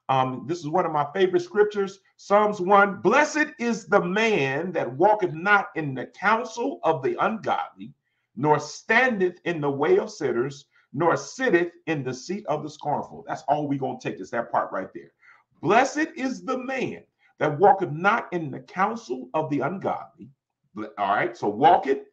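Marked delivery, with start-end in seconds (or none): 3.0-13.2 slow, measured Bible reading; scripture reading. Real, not acted. Preacher reading Psalms one to the congregation, slow and measured. 15.6-20.3 slow, measured Bible reading; scripture reading. Real, not acted. Preacher reading Psalms one to the congregation, slow and measured.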